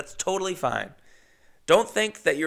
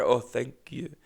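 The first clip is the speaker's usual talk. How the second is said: lightly imitated Russian lady; Russian accent. Old Russian lady thanks driver, light imitated Russian accent. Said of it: "Very thick accent".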